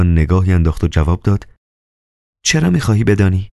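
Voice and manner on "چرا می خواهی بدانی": quick, haughty woman's voice, pitched higher; lightly voiced arrogance. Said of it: "با تفرعن". (با تفرعن و تند، با صدای زنانه)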